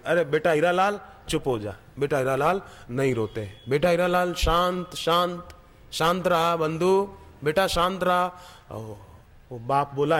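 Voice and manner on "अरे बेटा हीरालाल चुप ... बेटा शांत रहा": lightly voiced old grandfather, gently soothing; sympathetic coaxing. Passing old man soothes a stranger's crying child, mildly tender. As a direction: coax the crying boy kindly. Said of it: "सहानुभूति दिखाने".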